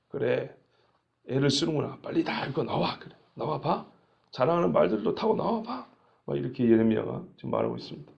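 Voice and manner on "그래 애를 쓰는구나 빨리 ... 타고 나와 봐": soft, taunting egging-on; understated jeer, goading them to come out; mocking. Jeremiah taunting the army he knows will lose, mocking. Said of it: "조롱하듯이 내지는 뭔가 통쾌한 기분으로".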